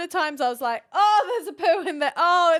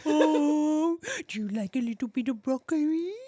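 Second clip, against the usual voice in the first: mocking, imitated baby talk, quieter; 4 dB quieter than usual. Mocking how some adults talk to children: mocking baby talk. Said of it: "My ick is baby talk".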